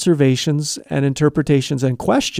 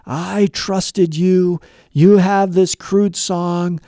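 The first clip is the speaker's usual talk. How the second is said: accusing parent; 3 semitones higher than usual. Retold or imitated. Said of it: "I came at her all guns blazing".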